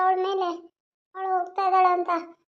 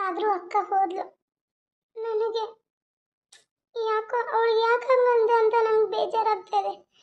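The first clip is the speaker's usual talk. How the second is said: tearful; 4 semitones higher than usual. Acted. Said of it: "Sita ಯಾಕೆ ಅಳ್ತಾ ಇದೀಯಾ?".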